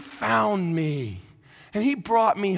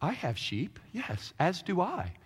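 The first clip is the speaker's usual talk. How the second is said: mock crowd; 8 dB quieter, slower than usual. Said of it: "And the people were like".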